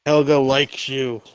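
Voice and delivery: slow, deadpan and flat; monotone. Acted. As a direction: drone it without any feeling. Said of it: "I say it in the most monotone voice you could ever hear".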